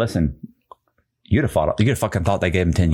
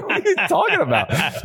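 laughing disbelief. Real, not acted. Laughing at inmate's complaints.

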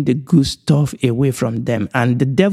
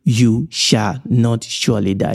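"You shall not surely die" in separated, weighted words; emphatic; 3 semitones lower than usual. Retold or imitated. Teacher quoting the devil to listeners, emphatic. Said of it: "the devil was also emphatic".

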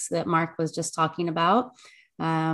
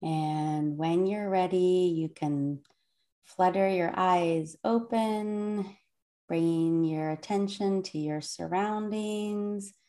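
soothing calm voice. Acted. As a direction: lead the breathing gently and unhurried. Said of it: "the soothing, calm voice of the speaker".

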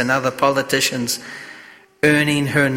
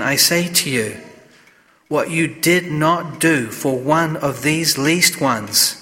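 measured, solemn Gospel reading; scripture reading. Acted. Reads the Gospel at Mass.

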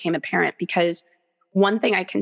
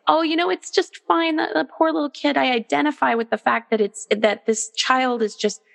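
mock permissive parent. Mocking a permissive parent excusing a tantrum, gushing. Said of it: "I would never say".

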